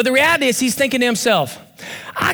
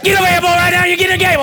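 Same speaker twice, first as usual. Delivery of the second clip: coach shouting; 4 semitones higher, much faster than usual. Retold or imitated. Coach calling his player off the field, in a mock shout. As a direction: bark it like a coach on the sideline.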